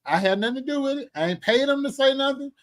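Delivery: solemnly disown all responsibility; mock disclaimer.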